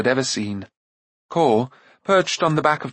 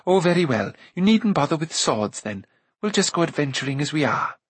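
breezy Eilonwy; 3 semitones higher than usual. Acted. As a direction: concede breezily and carry on planning. Voices Eilonwy, breezy concession.

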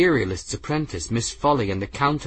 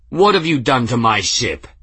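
angry call; 2 semitones higher, 5 dB louder than usual. Acted. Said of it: "He ground his teeth and called".

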